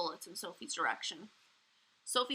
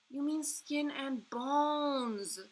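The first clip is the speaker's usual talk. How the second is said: put-on slow, high little girl voice; a young girl correcting gently; Sophie's voice; 6 semitones higher, much slower than usual. A narrator's reading. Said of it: "Sophie said".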